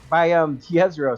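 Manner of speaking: slow, mumbled, like marbles in mouth. Real, not acted. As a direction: stumble over the name as if mouth full. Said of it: "I got marbles in my mouth".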